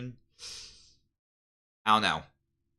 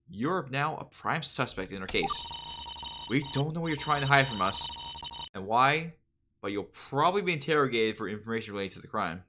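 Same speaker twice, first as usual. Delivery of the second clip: soft, official detective tone; stern detective voice; 4 dB quieter than usual. Acted. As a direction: warn the suspect evenly. Detective addresses a suspect.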